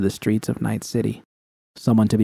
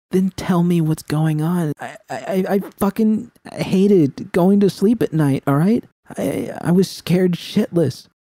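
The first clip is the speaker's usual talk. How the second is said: V, frightened confession; 8 semitones higher than usual. A narrator's reading. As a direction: confess it like it costs you.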